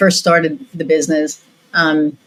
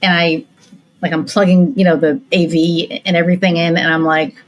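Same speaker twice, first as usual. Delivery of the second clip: usual speaking voice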